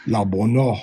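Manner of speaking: "la bono" with a hard b; ancient Hebrew reading. Shown as a demonstration. Teacher demonstrates ancient "la bono" to students. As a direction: say "la bono" with a clear b, ancient style. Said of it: "the ancient pronunciation of the Hebrew would have been".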